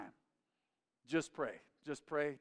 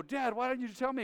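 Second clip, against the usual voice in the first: put-on whiny kid; 10 semitones higher, 6 dB louder than usual. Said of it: "And I'd go".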